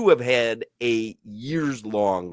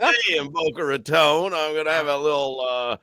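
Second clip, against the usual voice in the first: higher, put-on posh English voice; the pleased English gent; lightly done posh Brit; mock British accent; 4 semitones higher than usual. Host answers in mock British.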